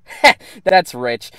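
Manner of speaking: mocking laugh. Mocking a third-party idea.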